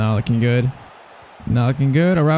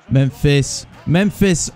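excited shout; slower than usual. Real, not acted. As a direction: yell the striker's name. Cheering striker on goal.

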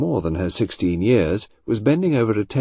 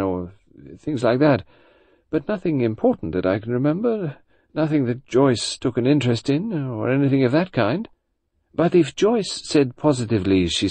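1 flustered mother; 7 semitones higher than usual. Acted. Mother's dialogue against lower narration.

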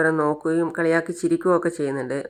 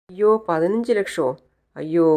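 higher pitched gasp of shock; shocked surprise; 4 semitones higher than usual. Retold or imitated. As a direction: react as if the price floors you. Learns necklace worth more. (ഞെട്ടലോടെ അത്ഭുതം)

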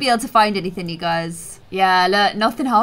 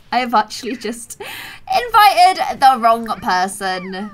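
laughing; 3 semitones lower, slower than usual. Real, not acted. Laughs at inviting wrong guest.

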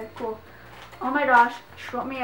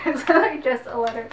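louder, laughing through the words; giddy laughing; 6 dB louder than usual. Real, not acted. Fan giddy over just a letter, laughing. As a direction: giggle helplessly while saying it.

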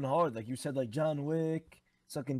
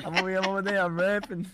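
laughing; 6 dB louder, faster than usual. Retold or imitated. Mocking friend's rap, laughing.

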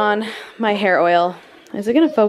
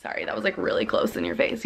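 whispered aside; 7 dB quieter than usual. Real, not acted. Camera too close, aside.

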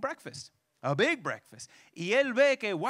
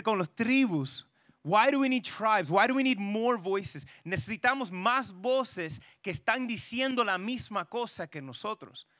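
ordinary talk, nothing marked

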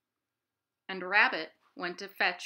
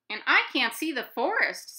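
Owl; 6 semitones higher, 8 dB louder than usual. Acted. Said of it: "said Owl".

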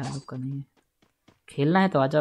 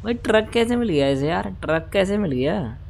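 much higher, disbelieving; amazed question; 5 semitones higher than usual. Real, not acted. Gamer asking his viewers how the enemy got a truck, amazed. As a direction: ask it in disbelief.

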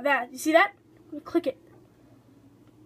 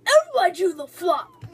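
playful call-out; 5 dB louder than usual. Pretend. Calling out a catchphrase in game.

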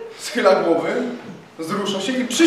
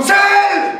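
a single word yelled much higher and louder; shouted order; 10 semitones higher, 6 dB louder than usual. A narrator's reading. Captain ordering the line to aim, loud shout. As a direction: snap out the aim command. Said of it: "Krzyknął".

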